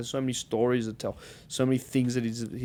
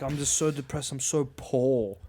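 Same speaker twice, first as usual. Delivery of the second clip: mock whiny lament; 2 semitones higher than usual. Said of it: "it's just like".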